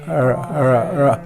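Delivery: ر said the wrong way as a correction example; wrong r sound. Shown as a demonstration. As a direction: show the mistaken ر before correcting it. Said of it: "ر نہیں".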